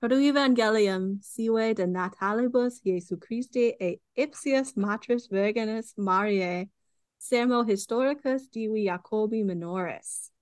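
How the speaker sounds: Latin title read with a slight German accent; careful German-tinged Latin. Real, not acted. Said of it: "said that with a German, uh, accent".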